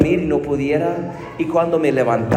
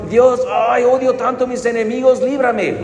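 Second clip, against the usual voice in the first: higher, fast plea full of grudge; a quick, higher-pitched prayer; mock angry prayer; 5 semitones higher than usual. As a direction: imitate someone blurting out a spiteful prayer. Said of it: "¿Cómo que rezamos".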